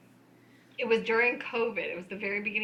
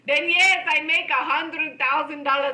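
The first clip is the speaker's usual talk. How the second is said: emphatic insistence; 5 semitones higher, 6 dB louder than usual. Retold or imitated. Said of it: "he goes".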